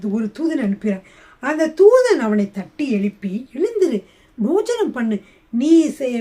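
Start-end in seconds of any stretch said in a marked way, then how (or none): 3.5-6.1 raised, higher-pitched mild call to wake; rousing command. Retold or imitated. Angel telling Elijah to get up and eat, rousing command. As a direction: rouse a sleeper with firm short orders.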